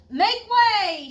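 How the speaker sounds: loud, high call to clear a path; shout. Acted. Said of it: "shouted Miss Comfort's brother".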